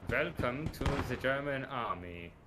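slow, lightly put-on German accent that drifts British; mock German accent. Greeting a teammate into the German army, slow and hammy. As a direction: welcome him in a bad German accent. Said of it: "That sounds like a mixture of British and".

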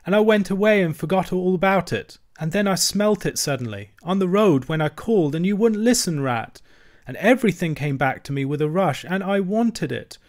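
a small creature weeping for his lost home; sobbing lament. A narrator's reading. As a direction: plead through sobs, voice climbing. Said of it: "he sobbed forth at last, brokenly".

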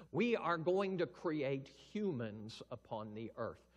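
slow, loud, solemn proclamation; grand Father voice. Acted. Preacher voicing God the Father, slow booming decree. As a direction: announce it slowly like a king on a throne. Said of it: "The Father says".

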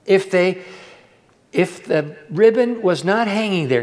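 normal talking voice

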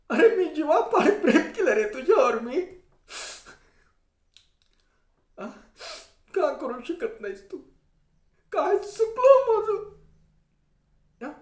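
high, tearful heroine pleading; heroine's crying dialogue. Retold or imitated. A village-play heroine weeping to her lover. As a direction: plead as the wronged heroine, voice breaking. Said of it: "मी heroine बोलते".

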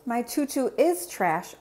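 a touch of sadness; Zoe, sad. Acted. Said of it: "Zoe said sadly".

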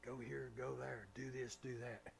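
very soft, low, gentle instructions; still small voice. Acted. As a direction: speak it just above a whisper. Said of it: "it's the still small voice".

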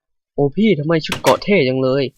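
imagined viewer asking about the armour, lightly voiced; admiring viewer. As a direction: gush over the armour like a fan. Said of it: "ถ้าคุณจะถามว่า".

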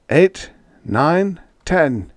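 plain reading voice

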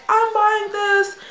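excited. Retold or imitated. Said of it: "I was just like".

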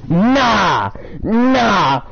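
crying out over his dead horse; wailing nah. Real, not acted. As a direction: moan it like you can't believe it. Reacting to horse being killed.

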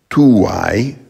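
tuae stressed on the first syllable; prose stress. Shown as a demonstration. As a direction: hit the TU of tuae. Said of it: "stress normally would be on the first syllable".

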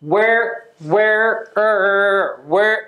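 "where" repeated, each closed on the R; teacher repeating "where" cut at R; stop on R. Shown as a demonstration. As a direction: drill "where" shut off at the R. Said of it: "Rで止めます".

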